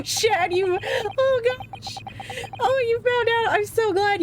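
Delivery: high, gleeful squeal; delighted the friend found out; excited squeal. Real, not acted. Reacting to the spoiler reveal, high excited squeal.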